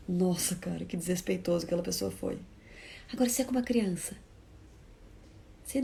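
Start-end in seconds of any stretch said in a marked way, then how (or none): 0.1-2.4 softer, low, shocked remark to oneself; shocked muttered aside. Retold or imitated. Onlooker at a café to themselves: soft shocked remark. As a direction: murmur it, appalled. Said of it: "Você fala".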